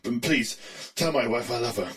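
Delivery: soft, weak dying farewell; fading last words; wounded soldier gasping. Acted. Stricken expert signing off.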